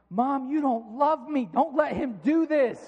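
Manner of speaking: drawn-out, mock yell to mom; retold screaming plea. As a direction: plead slowly in a half-scream, as a hurt kid. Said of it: "I am screaming. I am yelling".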